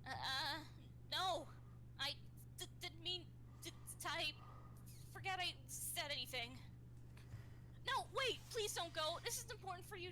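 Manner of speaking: stuttering nervous voice. Acted. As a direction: stammer out a panicked plea. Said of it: "I want to voice them".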